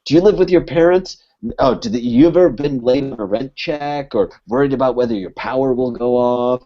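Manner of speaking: mild mock fury at a party guest; snapping rant. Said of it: "And I just fucking snap on her".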